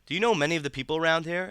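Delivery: put-on high, bright self-possessed teenage girl; young girl voice. A narrator's reading. Niece asks visitor.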